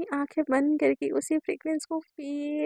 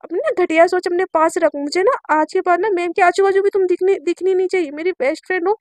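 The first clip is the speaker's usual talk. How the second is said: raised voice, possessive scolding; mildly angry warning; 3 semitones higher, 5 dB louder than usual. Acted. Sakshi warns best friend away from teacher, mildly angry. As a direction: warn her off with some heat.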